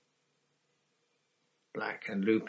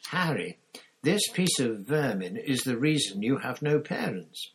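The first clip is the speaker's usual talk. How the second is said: loud, raised, contemptuous anger; snarl; 5 semitones higher, 5 dB louder than usual. A narrator's reading. Black condemns Pettigrew to Harry, snarling. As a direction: spit out loathing for the traitor. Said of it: "Black snarled".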